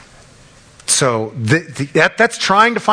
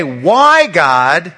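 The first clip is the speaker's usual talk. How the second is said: crying out to God; 4 dB louder than usual. Retold or imitated. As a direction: call out to God in hurt. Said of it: "and I say".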